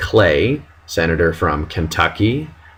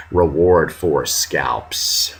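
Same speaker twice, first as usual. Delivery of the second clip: slow read label; 5 semitones lower, 4 dB quieter, much slower than usual. Retold or imitated. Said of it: "you can see the fruits of that reward".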